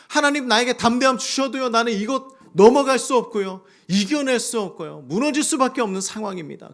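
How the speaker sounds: high, loud pleading; desperate prayer. Acted. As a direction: cry out that you cannot overcome. Voiced despairing prayer. (높고 크게 절박하게 하소연하는 기도)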